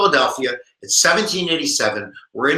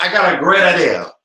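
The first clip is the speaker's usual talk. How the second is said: hammed-up Italian accent; 2 semitones higher, 4 dB louder than usual. Virginia entering the room with an idea, Italian accent. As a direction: pitch it as a mock-Italian delegate. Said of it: "you have an Italian accent".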